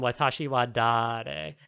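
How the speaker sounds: "Watashi wa dare?" in Japanese, slow with a rise at the end; わたしはだれ？とゆっくり問いかけて; Japanese question. Shown as a demonstration. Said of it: "something we would get as non-Japanese speakers".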